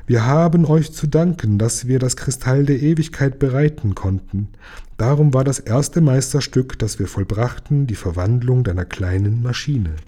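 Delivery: usual speaking voice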